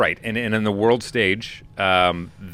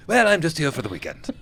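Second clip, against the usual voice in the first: higher, light mock English accent; 7 semitones higher than usual. Don Diego answering the villager in a mock English accent. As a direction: toss it off like a breezy English gentleman. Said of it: "he's talking in an English accent".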